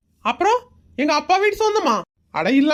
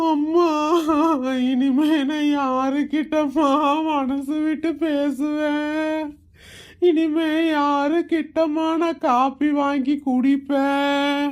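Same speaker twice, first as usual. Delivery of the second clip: mock mourning wail; 2 semitones lower, much slower than usual. Son wails over dead mother.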